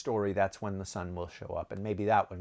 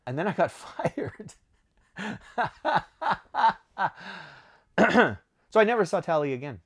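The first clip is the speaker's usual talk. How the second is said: real laugh breaking through the words, quick; amused laughing aside, higher and louder; 7 semitones higher, 4 dB louder, faster than usual. Real, not acted. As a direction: chuckle through it while telling the punchline. Laughs at being fired.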